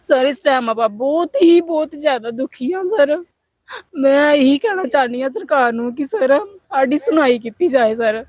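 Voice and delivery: tearful appeal to be heard; miserable, crying plea; real crying. Real, not acted. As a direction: plead with the government through sobs. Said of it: "ਚੱਲ ਤੂੰ ਰੋ ਨਾ".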